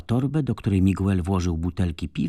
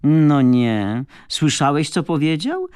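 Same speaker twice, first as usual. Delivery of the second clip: high, loud, thrilled outburst; euphoric, raised pitch and volume; 7 semitones higher, 6 dB louder, slower than usual. A narrator's reading. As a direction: gush in delighted disbelief. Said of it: "mówiąc euforycznie do Miguela".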